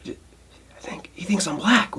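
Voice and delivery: slow, soft whisper to himself; whispered aside. Retold or imitated. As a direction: breathe it out as a baffled secret. Confused aside mid quote.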